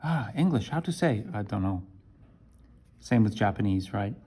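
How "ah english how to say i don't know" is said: mild confused learner. Shown as a demonstration. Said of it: "look at the difference".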